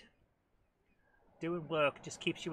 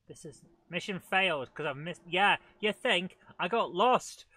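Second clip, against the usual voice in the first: sarcastic; 2 semitones higher, 9 dB louder than usual. Real, not acted. Sarcastic self-scolding after failing.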